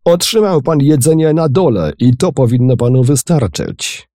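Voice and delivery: an indignant captain shouting down a guest; angry captain. A narrator's reading. Angry captain rebuffs Raffles. (oburzony kapitan krzyczy)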